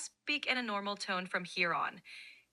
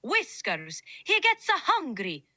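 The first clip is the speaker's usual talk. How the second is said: exaggerated Italian accent. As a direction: overdo the Italian accent like a cartoon plumber. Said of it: "Really exaggerate the Italian accent. Make it like Super Mario".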